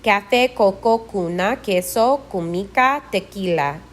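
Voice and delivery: Café, coco, cuna, queso, tequila with a K sound; Spanish K sound. Shown as a demonstration. Teacher modelling C and QU words, Spanish K sound. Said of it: "similar to the K in walking".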